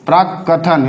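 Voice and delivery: प्राक कथन split by a held क; half k held. Shown as a demonstration. Teacher models the half k, doubled consonant. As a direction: stop on the क, then कथन. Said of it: "यानी आधा क".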